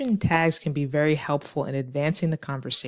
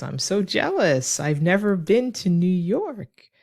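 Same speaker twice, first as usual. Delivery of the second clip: higher, drawn-out mock envy; lightly acted envy, slow and higher; acted jealous friend; 4 semitones higher, slower than usual. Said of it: "she says".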